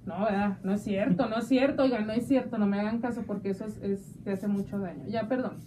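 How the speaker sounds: low-pitched, backing off the joke; apologetic retraction. Real, not acted. Host retracting a drinking joke to listeners, low and apologetic. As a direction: drop the pitch and take it back.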